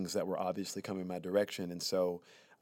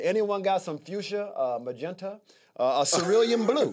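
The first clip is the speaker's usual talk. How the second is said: mock gang member; 10 semitones higher, 6 dB louder than usual. Mock gang asking for colors.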